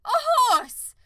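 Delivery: high, loud offended cry; scornful outrage. Acted. Unicorn to the farmer, high loud outrage. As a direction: spit it back in disgust. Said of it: "the unicorn said".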